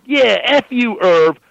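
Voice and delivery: high, bold jab; cocky mock yell. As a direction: stand up and cuss him out.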